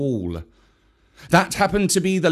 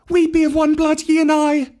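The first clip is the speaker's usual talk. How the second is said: snake's call; 14 semitones higher, 5 dB louder than usual. A narrator's reading. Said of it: "said Mowgli, quickly giving the snake's call".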